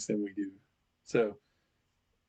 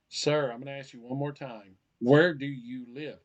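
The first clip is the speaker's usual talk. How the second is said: firm officer, slowing on the final question; insistent police officer; 4 dB louder than usual. Acted. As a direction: press the driver one last time. Acted police officer losing patience.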